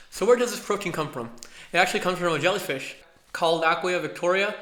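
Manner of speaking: slushy lisp from new braces. Real, not acted. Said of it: "so please excuse my lisp".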